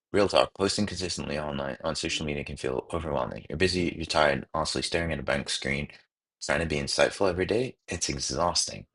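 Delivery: upbeat promo voiceover; ad read. Acted. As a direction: read it like a social media ad. Reads ad script aloud.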